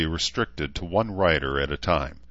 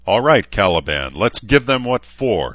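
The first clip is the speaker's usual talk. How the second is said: rousing call; 3 semitones higher, 6 dB louder than usual. Acted. Knight rallies horse before charge.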